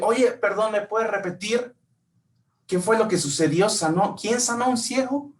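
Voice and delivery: high, urgent asking; eager questioning. Pretend. Blind man begging passersby to repeat the news, eager. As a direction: ask again, hungry for the news.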